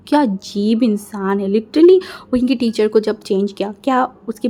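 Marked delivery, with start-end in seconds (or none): 0.1-2.0 shocked. Acted. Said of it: "shock होके देखा".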